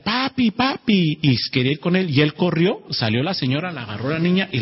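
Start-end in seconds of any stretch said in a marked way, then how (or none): 0.0-1.2 put-on child crying out. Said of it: "empezó a chillar".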